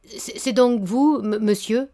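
put-on halting, stuttering old man, slow; stammering. Old baron stammering at the young man, slowly. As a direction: stumble over the words, overcome. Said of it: "bégaya le vieillard".

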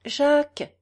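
tender call of a husband's name. A narrator's reading. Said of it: "dit-elle d'une voix tendre".

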